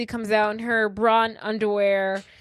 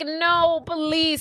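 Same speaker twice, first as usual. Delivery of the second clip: higher-pitched mock pleading; begging and pleading; 6 semitones higher than usual. Retelling a boyfriend's plea to his date, mock begging. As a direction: plead in a drawn-out, imitated whine. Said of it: "He's, like, begging and pleading her".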